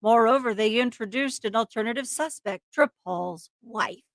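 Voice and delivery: dramatic true-crime narration; story narration. A narrator's reading. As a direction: read it as a suspenseful crime story. Reads the case story aloud.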